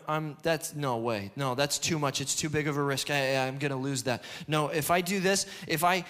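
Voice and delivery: low, hurried inner voice of doubt; mildly anxious muttering to oneself; fearful self-talk. Acted. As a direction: talk yourself out of it, voice kept down. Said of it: "That's fear. Fear talks to you".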